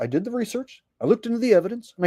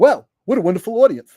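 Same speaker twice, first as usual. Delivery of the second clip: loud cartoon kid comedian stage voice; 6 dB louder than usual. A comic kid from South Park greets his audience, in a Jimmy from South Park voice. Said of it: "now it turned into fucking the retarded comic kid".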